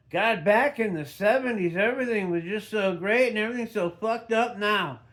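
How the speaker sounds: mock nostalgia. Mocking the nostalgic generational view.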